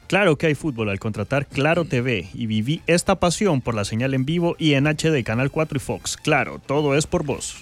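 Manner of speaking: sponsor ad read. Acted. Reads a sponsor spot.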